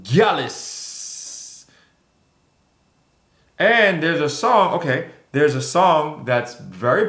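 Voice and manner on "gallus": Gallus in a Jamaican accent, KAH-lus falling. Shown as a demonstration. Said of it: "say it in the Jamaican accent".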